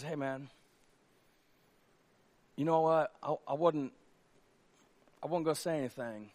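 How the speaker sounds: soft, hushed admission; quiet confiding. Acted. Second soldier shyly answering his friend, hushed. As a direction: confess it gently under your breath.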